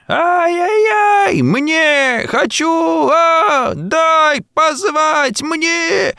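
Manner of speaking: high, slow crying shrieks; piercing tantrum screams. A narrator's reading. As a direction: scream like a spoiled boy in a fit. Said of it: "понеслись новые пронзительные крики".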